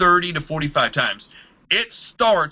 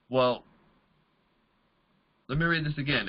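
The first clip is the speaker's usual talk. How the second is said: ordinary delivery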